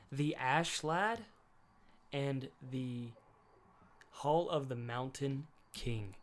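slowly, each word of "The Ash Lad and the Hall of the Mountain King" drawn out; slow title announcement. Shown as a demonstration. Telling friends the film's title, drawn out slowly. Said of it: "What was it called?".

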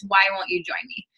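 breathy whisper, playful; whispered tease. Pretend. Inviting her followers to join, in a teasing whisper.

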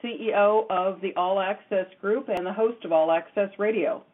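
measured, scripted show-opening read; radio host introduction. Acted. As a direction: introduce yourself and tonight's guest to listeners.

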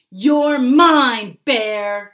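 loud, high wild battle cry; a loud, high shout while charging the bear. Acted. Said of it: "shouted Jim".

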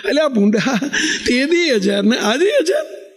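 chuckling through a teasing rebuke; laughing while scolding. Real, not acted. Swami teasing the congregation about an unchanged donation, laughing.

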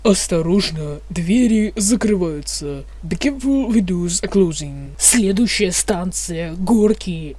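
metro announcer voice; mumbling subway conductor. Pretend. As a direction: read it like a train announcement. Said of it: "вы услышите информатор".

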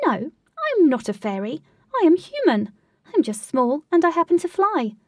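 high, loud little voice insisting; tiny fairy protesting. Acted. Tiny winged lady correcting Katie, high indignant voice.

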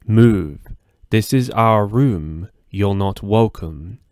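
slow, flat, eerie monotone. Acted. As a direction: deliver it cold and lifeless, like a creepy child. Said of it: "he said in a monotone, strange voice".

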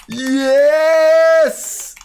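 high loud cheer; triumphant yes. Real, not acted. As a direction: celebrate the win. Reaching the top. (grito de vitória)

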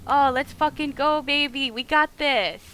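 pumped-up gamer cheer; hyped. Real, not acted. Player rallying as a helper joins, hyped.

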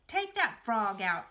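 firm, slow command; ordering. Acted. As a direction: order him bossily. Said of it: "ordered Fern".

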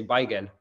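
BAGEL said as BY-gen, ending in n; Yiddish pronunciation. Shown as a demonstration. Explaining the Yiddish word, pronounced BY-gen. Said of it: "it would be the Yiddish pronunciation".

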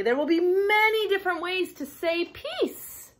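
bright, expressive read-aloud voice; reading to children. Acted. Teacher reading a picture book to kids, lively storytelling.

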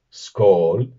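skål as in Norwegian, drawn out and rising; Norwegian and Swedish pronunciation. Shown as a demonstration. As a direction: lift the tune on an open, loud skål. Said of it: "un poquito más abierta y no redondeada".

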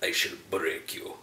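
loom over him and crush him with the words; deep menacing villain. Retold or imitated. The Master threatening F, in a low menacing voice. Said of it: "he's basically just like".

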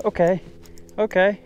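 high, loud excited okays; hyped up while landing the fish; real excitement. Real, not acted. Fighting a big trout.

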